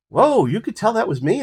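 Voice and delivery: high, loud amazed reaction; be stunned he noticed you. Retold or imitated. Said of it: "And he's like".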